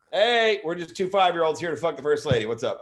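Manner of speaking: put-on high cheeky kid voice; a kid playing it cool; mock kid voice. Imagined twins greet the first lady, cheeky kid voice. Imagined kids in trench coat.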